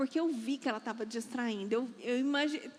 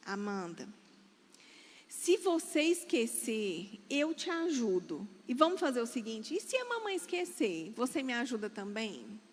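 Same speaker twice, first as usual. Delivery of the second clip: reassuring mother; 4 semitones lower than usual. Retold or imitated. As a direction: gently promise your help, unhurried. Mother reassures nervous daughter before stage.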